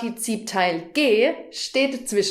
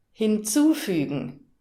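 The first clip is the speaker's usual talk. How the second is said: Hinzufügen with the zu syllable stressed; stress shown on zu. Shown as a demonstration. Teacher showing a learner where the stress falls, zu stressed. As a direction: lean on the zu in Hinzufügen. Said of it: "Hörst du die Betonung?".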